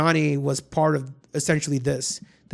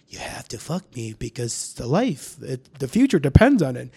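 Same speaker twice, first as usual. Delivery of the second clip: alien voice; 3 semitones lower than usual. Retold or imitated. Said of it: "He'd make this alien voice".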